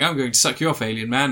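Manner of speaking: lightly put-on English accent. Wife propositions the alien man, lightly exaggerated English accent. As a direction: play the wife in mock English. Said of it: "doing an English accent".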